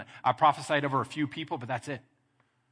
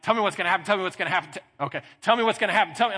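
higher, louder, pressing each man in turn; insistent friend going round the room; eager questioning; 6 semitones higher, 5 dB louder, much faster than usual. Retold or imitated. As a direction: urge them on, rapid and keen. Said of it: "But he, like".

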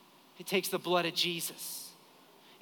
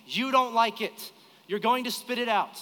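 higher, emphatic parental warning; retold stern dad, each word driven home; firm fatherly warning; 3 semitones higher, 3 dB louder than usual. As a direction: lay down the law to a child. Father warning his insistent child.

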